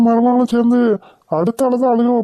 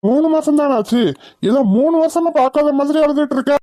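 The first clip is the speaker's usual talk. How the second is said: higher-pitched, incredulous scolding; raised-pitch exasperated reproach; exasperated scoffing; 5 semitones higher than usual. Acted. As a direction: scoff at all this fuss. Husband scoffs at the crying mother.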